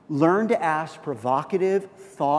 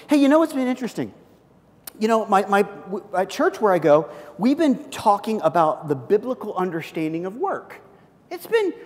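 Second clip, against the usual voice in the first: high, quick, friendly chatter; friendly sharing; 4 semitones higher, 4 dB louder than usual. Pretend. Telling a coworker about church lessons, high friendly chatter. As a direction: share it casually with a friend. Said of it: "let me give you another one".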